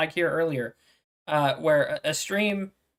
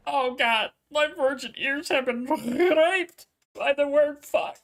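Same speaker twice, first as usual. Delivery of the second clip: mock prudish; 7 semitones higher, slower than usual. Mocking offense at swearing.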